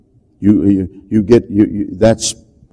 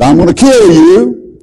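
put-on possessed girl's threat; 8 semitones higher, 5 dB louder than usual. Possessed girl threatens preacher.

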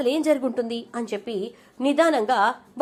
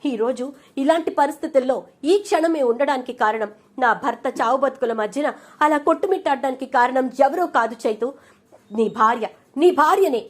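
raised voice building to a loud final blow; wife's outraged reveal to her brother-in-law; angry accusation; 3 semitones higher, 4 dB louder than usual. Acted. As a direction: denounce her to his face, louder at the end. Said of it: "నీకు ఇంత కోపం రావడానికి కారణం ఏంటి".

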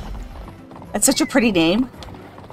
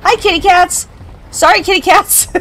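high cooing voice for the cats; pet talk; 9 semitones higher than usual. Real, not acted. Greeting her cats in high pet talk. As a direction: sing it out to the kitty cats.

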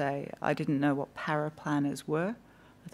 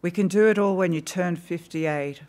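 upbeat; 3 semitones higher, 8 dB louder than usual. Retold or imitated. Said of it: "in an upbeat tone".

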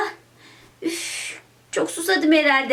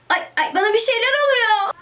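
feeling faint; 4 semitones higher than usual. Acted. Child suddenly feels ill.

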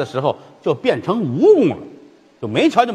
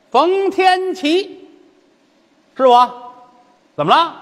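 put-on teasing child; 13 semitones higher, 4 dB louder, slower than usual. Child revealing himself.

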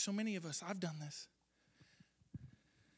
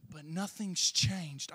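drawn-out cry, much louder and slow; slow loud lament; 2 semitones lower, 7 dB louder, much slower than usual. Retold or imitated. Preacher voicing a struggling believer praying, slow loud lament. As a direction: wail the words slowly at full voice. Voiced prayer to God.

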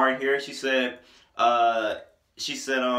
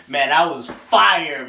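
hyped; 7 dB louder, much slower than usual. Real, not acted. Hyped reaction to song.

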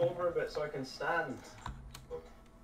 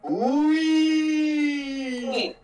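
loud high whoop; excited whoop; 11 semitones higher, 8 dB louder than usual. Real, not acted. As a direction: let out a gleeful yell. Celebrating team jump.

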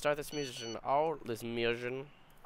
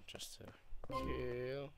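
soft sneaky whisper; 6 dB quieter than usual. Real, not acted. Sneaking up during mission.

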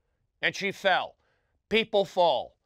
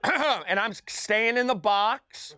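nervous laugh; 3 semitones higher than usual. Real, not acted. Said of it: "I'm not choked up".

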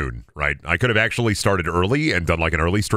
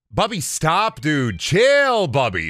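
high, slow pet-scolding voice; high coaxing telling-off to a pet; scolding the dog; 8 semitones higher, much slower than usual. Real, not acted. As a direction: sing it up high at the dog to hush her.

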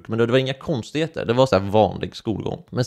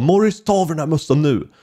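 a hint of a stern teacher, a bit louder; 5 semitones higher, 3 dB louder than usual. Teacher Rickard telling Morris to remove his cap, mock stern. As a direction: order him to take the cap off. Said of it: "Och han bara".

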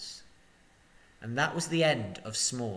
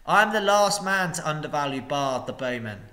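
wary; 2 semitones higher, 5 dB louder than usual. Acted. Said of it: "said the master warily".

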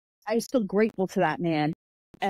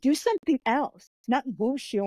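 much higher, slow, teasing voice; mocking advice; 6 semitones higher, slower than usual. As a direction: drag out the taunt to make fun of her. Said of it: "they were like".

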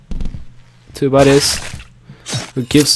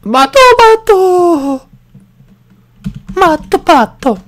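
high calling shout; 6 dB louder than usual. Real, not acted. Calling character name loudly.

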